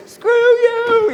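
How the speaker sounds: very high, stretched-out holler; yell while falling away. Retold or imitated. Soldier yelling back at crew chief as he disappears, high holler. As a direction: yell it back as you drop out of sight.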